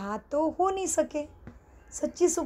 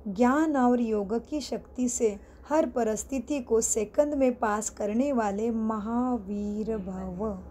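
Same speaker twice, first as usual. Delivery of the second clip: measured reading, slowing towards the end; scripture reading; 2 semitones lower, slower than usual. Acted. Teacher reading the day's blessing to students, measured and formal. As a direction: read out a blessing deliberately.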